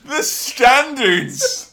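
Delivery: high, loud, slow laughing cry of outrage; laughing outburst. Real, not acted. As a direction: splutter it out through laughter. Mock outrage at film standards.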